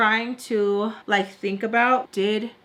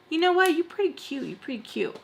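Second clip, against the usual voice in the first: high-pitched imitation of a flirty friend; mock flirting; 8 semitones higher than usual. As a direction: mimic her deciding he's cute, pitched way up.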